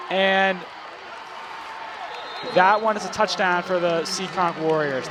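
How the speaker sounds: steady play-by-play call, tracking the runner; walk the listeners through each snap as it happens; live play-by-play. Acted. Announcer calling the Bulldogs' drive for the broadcast, measured play-by-play.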